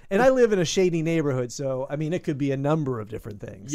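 usual speaking voice

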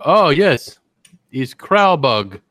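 slow, drawn-out mock Lithuanian-ish accent with "Kralbug" stretched; mock foreign accent. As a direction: fake foreign guest savouring the dish, slow. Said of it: "if they talk like that".

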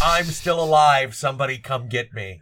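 play-scream it out to everyone far away; hammed-up telepathic distress call; mock psychic scream. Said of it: "psychically scream to everybody else".

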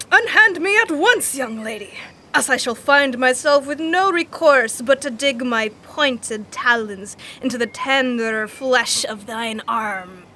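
lightly voiced theatrical cat; hammed-up Shakespearean ham; hammy stage actor. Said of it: "what's his voice sound like?".

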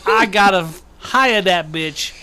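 loud, excited mock Jersey boss; hammed-up Jersey boss. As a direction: bellow it like a panicked Jersey boss. Acted employer in Jersey voice.

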